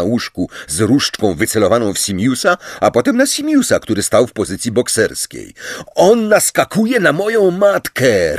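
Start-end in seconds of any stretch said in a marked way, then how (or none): 5.9-8.4 high-pitched indignant outburst; outraged, strained cry; roared accusation. A narrator's reading. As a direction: roar your complaint, pitch shooting up. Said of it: "ryknął Simius".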